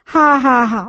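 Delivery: rolling bursts of real laughter. Real, not acted. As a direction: let the laughs spill out one after another. Holy laughter in worship.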